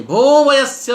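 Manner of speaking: high, drawn-out stage shout; loud theatrical call of alarm. Acted. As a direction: cry out to a friend in acted panic. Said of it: "घबराहट के साथ बड़े जोर से".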